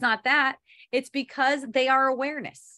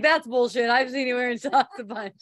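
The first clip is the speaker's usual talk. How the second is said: real amusement, louder at the start; laughing retort; 4 dB louder than usual. Real, not acted. Speaker caught out about socks by Leia, laughing. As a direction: laugh through a teasing quote. Laughing while quoting Leia's objection.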